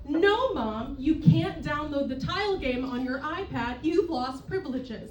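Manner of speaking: mock-stern parent laying down the law; lightly harsh telling-off; harsh scolding. Daughter disciplining her seventy-five-year-old mother, mock harsh. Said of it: "if my tone is a little harsh".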